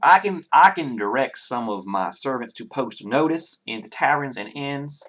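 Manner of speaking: lightly voiced Southern gentleman; Southern character, helpful. Townsman offering servants to post notice, obliging Southern voice.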